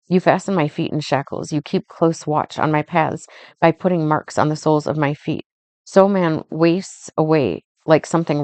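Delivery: steady, measured Bible reading; solemn reading of Job's plea; scripture reading. Acted. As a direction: read the verses aloud with even weight. Reads Job passage aloud.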